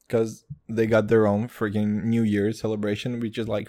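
ordinary delivery

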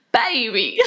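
lightly put-on British "baby", laughing; playful stab at a British accent; mock British accent. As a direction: imitate a tipsy British accent, amused. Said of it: "I feel like it was like".

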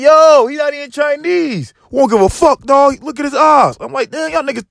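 high, strained incredulous yell; yelling at attackers. Retold or imitated. Comic yelling at a crowd chasing his friend, high and strained. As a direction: shout across the street that he's not even Chinese. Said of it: "I'm yelling at these niggas like".

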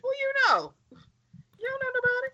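high squeaky mock taunt; mocking falsetto. Friends mocking the Hound's line in a high squeaky voice.

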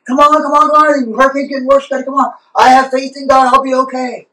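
very high, urgent calling; frantic helicopter rescuer. Retold or imitated. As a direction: shout him up into the helicopter.

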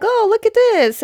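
high-pitched, excited mimicry of onlookers. Girls watching Aang and Katara visit, excited. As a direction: act out delighted kids seeing a trick.

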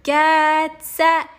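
high, loud, rising race call; shouted start. Acted. Boy calling the swing launch, high and loud. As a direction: bark it like a starter. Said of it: "I shouted".

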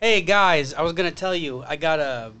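deep character voice. Pretend. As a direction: growl it out from deep in the chest.

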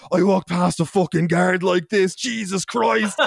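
drawn-out, panicked exclamation; mock panic. Student discovers powder on his face, mock panic. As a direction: imitate horrified realization, rising on the oath. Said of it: "having a panic attack".

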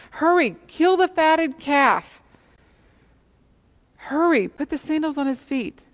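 father calling out, high and loud with joy; a father shouting orders at his son's homecoming, elated; excited father. Acted. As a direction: hurry the servants along, overjoyed. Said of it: "his father interrupts him and says".

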